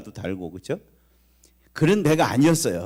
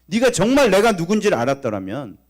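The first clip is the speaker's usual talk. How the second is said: higher, louder preacher's cry; preaching at full force; 7 semitones higher, 5 dB louder than usual. Acted. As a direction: drive the rebuke home from the pulpit. Preaches Jesus' rebuke.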